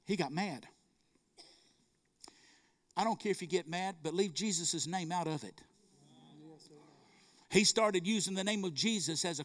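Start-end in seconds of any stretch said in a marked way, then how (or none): none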